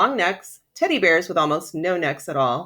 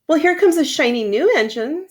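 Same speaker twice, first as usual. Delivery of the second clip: high, bright call of a toy clown; excited clown spotting the engine; funny clown voice; 8 semitones higher, 4 dB louder than usual. Acted. Clown to the toys, high excited call. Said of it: "said the funny little clown".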